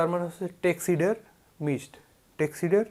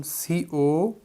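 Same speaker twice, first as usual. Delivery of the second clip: slow spelled letters; much slower than usual. Shown as a demonstration. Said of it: "একটা জিনিস খেয়াল করুন তো".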